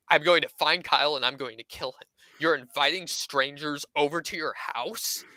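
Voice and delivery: mildly scandalized scolding, played for laughs; retold mini rant. Woman chewing out a friend over inviting strangers, mock outrage. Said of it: "she went into this mini rant".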